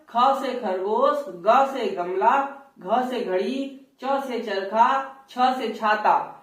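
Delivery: slow, clear alphabet recital; standard recitation. Shown as a demonstration. Teacher reciting the standard alphabet, slow and clear. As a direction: recite each letter plainly and slowly. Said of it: "लेकिन जैसे ही आप हरियाणा की तरफ".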